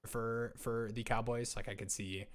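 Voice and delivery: glitchy robotic audio. Real, not acted. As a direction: voice breaking up like a robot. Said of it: "You're going robot mode for me".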